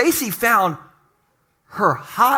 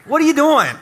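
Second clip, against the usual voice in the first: mock surprised; 6 semitones higher, 3 dB louder than usual. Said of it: "You're just like".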